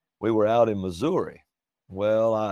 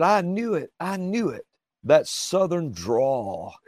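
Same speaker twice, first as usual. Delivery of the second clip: higher, gloating clerk voice, with a slow "That Southern drawl."; imitating the clerk; 6 semitones higher, slower than usual. Alabama man imitates the Missouri clerk crowing at his drawl, higher. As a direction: crow like the lady who guessed it, pitched up.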